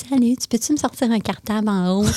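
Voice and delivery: sweet flirty request, lightly put on; honeyed voice. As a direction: coo it like a sugary stepmother. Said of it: "je vais sortir une voix mielleuse".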